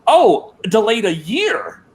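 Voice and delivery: high, slow mock-impressed reaction; sarcastic. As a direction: sarcastically feign amazement. Mocking the delay announcement.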